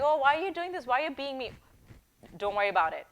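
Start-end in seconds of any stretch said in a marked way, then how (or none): 0.0-1.5 high, plaintive mimicry of a complainer; mock whining. Coach imitating a recorded coworker's protest, mock whining. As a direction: whine it as a wounded protest.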